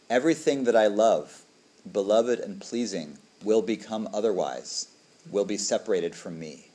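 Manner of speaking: reciting the five recollections, measured and solemn; liturgical recitation. Acted.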